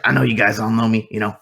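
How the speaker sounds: lightly voiced self-important manager; lively in-character rambling, building to an insistent finish; chattering manager. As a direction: chatter on, pleading your own case. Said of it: "just, like, chattering nonstop".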